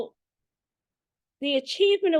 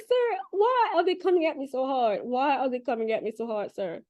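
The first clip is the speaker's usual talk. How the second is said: pleading. Retold or imitated. Pleading with the spirit, high.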